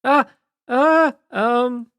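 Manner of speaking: high panicked yelps; frightened yelps. Acted. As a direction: yelp in fright at the bees. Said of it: "Gleam's like".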